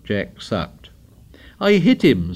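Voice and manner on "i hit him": higher-pitched indignant insistence; insist, stung at being ignored. A narrator's reading. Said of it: "said Ralph indignantly".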